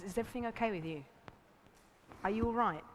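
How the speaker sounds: soft, caring check-in; loving concern. Shown as a demonstration. Partner greeting someone who finally calls back, loving concern. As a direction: ask gently, out of love. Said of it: "first one is coming from love".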